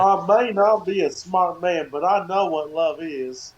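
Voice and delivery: Forrest Gump. Retold or imitated. Quoting the movie to his cohost as a light Forrest Gump. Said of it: "Forrest Gump".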